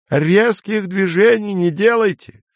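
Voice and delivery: high-pitched call after someone. A narrator's reading. Izya calls after Denny going downstairs, shouting a warning. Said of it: "крикнул Изя вслед Дэнни".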